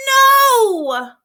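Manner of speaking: high, loud defiant yell; a kid shouting back his refusal; shouted child's no. Acted. Boy yelling at his mother, high defiant shout.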